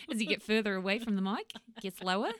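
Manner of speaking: lightly mimicked Australian accent. Podcast host mimicking her co-host's sentence, Australian accent. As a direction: echo it back in an Australian accent. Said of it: "I learned the Australian accent".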